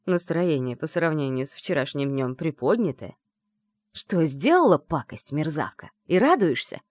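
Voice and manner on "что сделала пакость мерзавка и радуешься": growled. Acted. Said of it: "прорычал Андрей".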